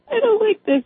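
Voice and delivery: high-pitched imitated kid complaint; complaining child. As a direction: play a little kid protesting. Retold small child refusing food.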